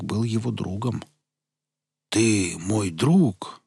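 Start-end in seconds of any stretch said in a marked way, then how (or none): 2.1-3.6 slow, drawn-out dazed voice; dazed simple voice. Acted. Dazed Veles asks slowly.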